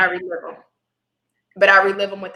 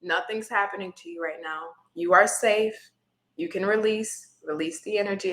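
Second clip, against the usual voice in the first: soft inner self-talk; 5 dB quieter than usual. Retold or imitated. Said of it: "I'll say to myself internally".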